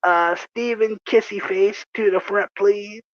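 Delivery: page him deadpan over the store microphone; mock store announcement. Bernie pages his coworker over the microphone, mock-official announcement. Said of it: "He picks up the microphone".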